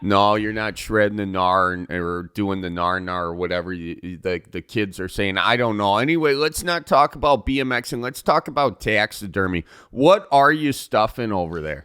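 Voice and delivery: lightly put-on folksy broadcaster; easygoing Midwest radio interviewer; Northwoods radio host. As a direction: chat like a small-town radio host. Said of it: "I'm the host of Northwoods Radio".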